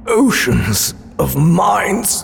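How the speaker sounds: slow, hoarse, dying whisper-croak. Acted. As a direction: drag the words out like a dying man. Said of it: "the old man croaked".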